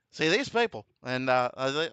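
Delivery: lightly voiced mock president; a hint of politician impression; Trump. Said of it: "somehow the voice comes naturally".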